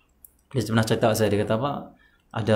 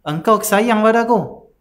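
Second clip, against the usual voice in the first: slow, high, louder tearful plea; 8 semitones higher, 4 dB louder, slower than usual. Retold or imitated. Sick man weeps to the Prophet, slow and tearful. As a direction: choke it out slowly in tears. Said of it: "Nangis dia".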